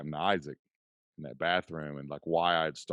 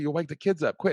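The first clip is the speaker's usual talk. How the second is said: high, louder retold scolding; imitated freak-out; 10 semitones higher, 6 dB louder than usual. Wife warning husband about sleeping children, imitated freak-out. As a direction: imitate a wife telling someone off. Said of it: "Jocelyn's freaking out".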